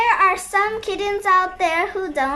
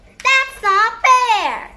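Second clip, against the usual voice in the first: slow, drawn-out mock protest; hammed-up cry of injustice; indignant wail; 3 semitones higher, 4 dB louder, much slower than usual. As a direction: wail it in outrage, stretching each word. Fired character protests.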